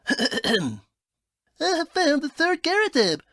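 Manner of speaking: a hint of a cockney accent, read from the message; half-hearted cockney accent for the letter; reluctant put-on accent. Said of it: "Do the accent".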